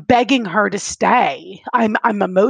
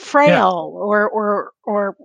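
tearing up; much slower than usual. Real, not acted. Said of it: "I'm tearing up now".

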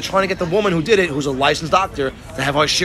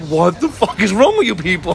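mildly aggressive mock outburst; acted-out indignant demand; retold anger. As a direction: imitate a guy losing it, only half-heated. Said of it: "got angry and aggressive".

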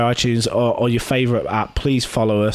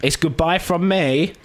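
mock sign-off; 5 semitones higher, slower than usual.

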